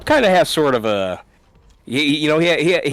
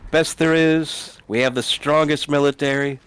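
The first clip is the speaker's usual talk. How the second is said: Trump impression. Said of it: "here I am about to make fun of Trump".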